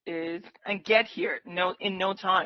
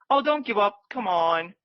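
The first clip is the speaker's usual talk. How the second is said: excited. Real, not acted. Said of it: "I got so excited over here".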